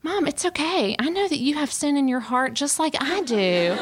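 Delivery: a lightly voiced six-year-old, high and casual; nonchalant child. Daughter reassuring her mom, light childlike nonchalance. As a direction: shrug it off like a little girl who isn't bothered. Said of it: "real nonchalantly was like".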